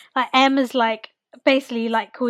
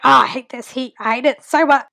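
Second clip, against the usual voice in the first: louder, exasperated moan in imitation; mock grumpy complaining; 7 dB louder than usual. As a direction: grumble loudly like a sulker. Imitating Frank's grumpy complaining about heat.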